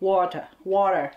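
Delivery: "water" with an American r ending. Shown as a demonstration. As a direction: say "water" as WAH-der. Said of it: "พวกอเมริกันเขาก็จะเรียก".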